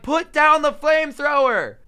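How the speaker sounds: alarmed shout at a friend holding a flamethrower; urgent yell. Retold or imitated. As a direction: order him to drop it, fast.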